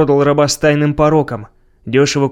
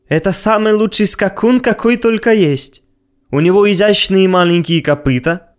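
high, eager, smug praise; sly storyteller; 4 semitones higher than usual. Acted. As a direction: lay it on thick, raised pitch. Abner praises the horse.

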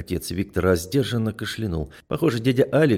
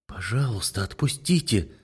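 sobbing plea; 4 dB quieter than usual. Acted. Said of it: "всхлипнула я".

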